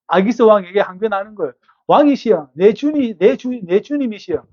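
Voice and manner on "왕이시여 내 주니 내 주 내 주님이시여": raised pleading protest to the king; David protesting. Acted. 다윗이 아기스 왕에게 억울하게 항변하는 높은 목소리. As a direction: insist you want to fight, pitch up. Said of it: "라고 다윗이 항변해요".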